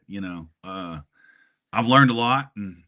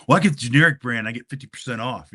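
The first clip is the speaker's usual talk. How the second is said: quick, eager nerdy accountant patter; lightly done, fast-talking Louis Tully bit; Louis Tully impression; 3 semitones higher, 7 dB louder, faster than usual. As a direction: rattle it off like a proud bargain hunter. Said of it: "I did the Louis Tully from Ghostbusters".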